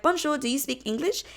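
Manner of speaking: mock a rude tourist speaking to a child; condescending tourist. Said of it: "in a very condescending tone".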